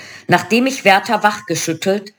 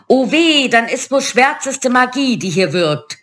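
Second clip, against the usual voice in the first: high, alarmed witch cry, easing toward the end; fearful witchy wail; screeching witches; 7 semitones higher than usual. A narrator's reading. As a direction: screech it like frightened crones. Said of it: "kreischten die Hexen und rollten vor Angst".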